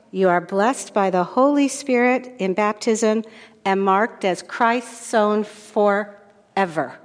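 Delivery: slow, solemn liturgical recitation; baptism blessing formula. Shown as a demonstration. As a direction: intone it like the priest at a baptism. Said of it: "this is what we would say".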